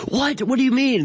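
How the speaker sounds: eager, incredulous rising questions; shocked kids. Retold or imitated. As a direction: squeak it like a stunned nine-year-old. Boys hearing about the broadcast.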